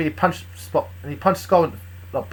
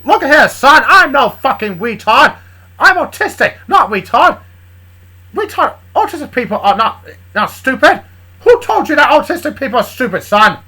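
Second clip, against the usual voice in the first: loud, blustering Southern cartoon rooster; Southern cartoon chicken; 9 semitones higher, 10 dB louder than usual. The speaker rebuking Big as an indignant Southern cartoon chicken. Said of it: "I decided to speak in a South accent".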